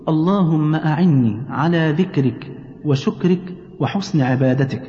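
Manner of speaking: slow, measured recitation with drawn-out vowels; prayer recitation. Shown as a demonstration. Completing the hundred remembrances for mother, slow recitation. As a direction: recite it unhurriedly, phrase by phrase.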